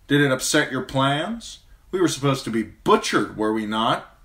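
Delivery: sharp, bitter son's challenge; Tyrion's voice. A narrator's reading. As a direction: needle him with wry bitterness. Tyrion voiced challenging his father.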